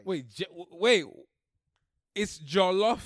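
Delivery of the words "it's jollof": "jollof" said "JAH-loff"; firm correction, "jollof" with an open first vowel; corrected pronunciation. Shown as a demonstration. Correcting cohost's word, "jollof" said "JAH-loff". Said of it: "You said jail love".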